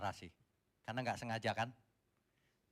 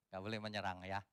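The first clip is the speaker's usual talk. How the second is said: ordinary talk, nothing marked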